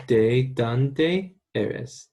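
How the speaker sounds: slow, drawn-out teacher model; deliberate classroom demo; slow model phrase. Shown as a demonstration. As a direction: spell it out slowly for the class. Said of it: "that's pretty much the way of asking".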